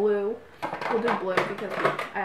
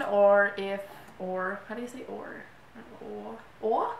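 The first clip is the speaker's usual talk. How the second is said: unsure attempt at a British accent. Vlogger practising the word "or", hesitant British accent. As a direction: feel out the British way of saying "or". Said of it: "me talking in a British accent".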